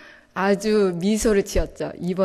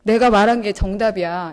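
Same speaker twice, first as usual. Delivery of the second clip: stern God. Retold or imitated. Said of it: "이렇게 얘기하시는 것 같은 거예요".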